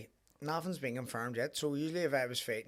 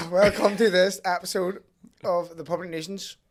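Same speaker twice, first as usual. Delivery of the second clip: professional intro; 5 semitones higher, 10 dB louder than usual. Shown as a demonstration. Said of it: "Right, professional".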